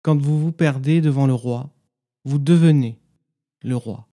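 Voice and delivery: measured poem recitation with long silences between phrases; meditative poem reading. Acted. Guide reads listeners a Sufi poem as practice, meditative recitation. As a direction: recite each line as an instruction, then leave silence.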